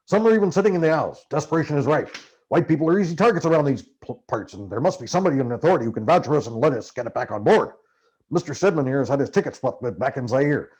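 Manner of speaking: bully the steward into helping as Hunter; Hunter's voice, pushy. Acted. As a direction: Hunter pressuring the steward, fast and loud.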